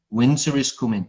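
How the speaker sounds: imitating Ned Stark's Yorkshire accent. Quoting Ned Stark to show his accent, Yorkshire. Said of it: "That's Yorkshire".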